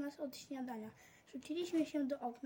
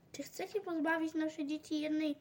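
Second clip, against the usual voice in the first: firm, somewhat raised appeal; strong voice; 3 dB louder than usual. Acted. Neighbour addressing the workers in a firm, lightly raised voice. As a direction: call it out with force. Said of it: "zawołała mocnym głosem".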